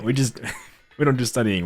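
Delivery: giggling through the repeat; amused chuckling retake; laughing repeat. Real, not acted. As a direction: break into laughter on it.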